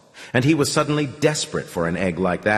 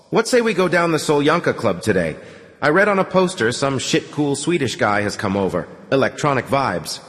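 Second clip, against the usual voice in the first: a hint of a dopey bunk dweller, a bit higher; loose, lazy suggestion; a touch of a stoned young man; lightly voiced slacker; 4 semitones higher than usual.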